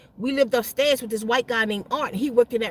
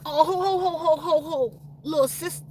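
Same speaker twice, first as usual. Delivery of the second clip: hearty teasing ho-ho-ho, pitched up; mocking laugh; 3 semitones higher than usual. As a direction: laugh her off like a big brother. Man laughing at her, teasing.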